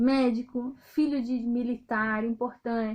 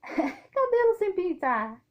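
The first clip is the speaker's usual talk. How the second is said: higher, slow, with a laugh before "Cabelo"; laughing emphasis; 6 semitones higher, much slower than usual. Real, not acted. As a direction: stretch out "Cabelo sem pintar" slowly, laughing at yourself.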